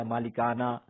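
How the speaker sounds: "مالکانہ" said as malikana, ending in a; final h read as alif. Shown as a demonstration. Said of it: "پڑھتے کیا".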